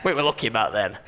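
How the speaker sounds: a hint of a reminiscing pensioner; old man voice. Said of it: "a bit gruffer".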